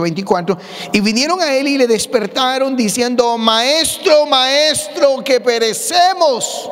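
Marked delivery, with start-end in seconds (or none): 3.4-6.7 high, loud, desperate cry for help, slowing on the last words; frightened plea. Acted. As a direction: beg the master to wake up, terrified. Disciples wake Jesus in storm.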